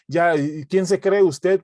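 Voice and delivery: a disciple bristling at a rival; mock indignant challenge. Disciple challenges a rival over rank, mock indignant.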